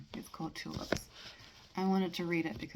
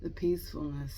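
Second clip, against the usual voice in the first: measured, deliberate poem recitation with pauses between phrases; poetry reading; 4 dB louder, slower than usual. Acted. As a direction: read the poem aloud, letting each line settle. Reads a poem aloud.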